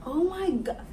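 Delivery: very high, overwhelmed squeak; getting emotional. Real, not acted. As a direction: gush as if about to cry. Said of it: "I'm getting emotional".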